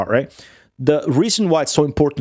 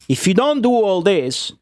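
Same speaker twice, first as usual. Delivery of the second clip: higher pitched, worked-up ranting at the screen; exasperated rant; 5 semitones higher than usual. Real, not acted. Roman cook ranting at photos of American pasta, exasperated.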